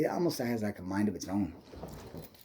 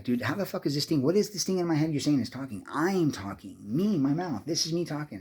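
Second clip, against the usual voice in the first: higher-pitched retold argument; arguing; 5 semitones higher than usual. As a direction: argue back like an indignant kid. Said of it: "I'm fucking arguing with her".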